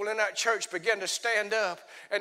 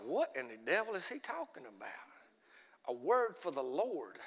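much softer, lower, bewildered mutter; puzzled inner thought; 8 semitones lower, 13 dB quieter than usual. Retold or imitated. Young man confused by the pastor's question, muttering. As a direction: say it under your breath like you can't believe it. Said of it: "And I was like".

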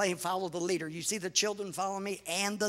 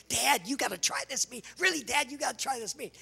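higher, mildly pleading retold nagging; persistent; 5 semitones higher than usual. Daughter pressing Dad to try the meat, persistent. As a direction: imitate someone who keeps pressing. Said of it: "She was very persistent".

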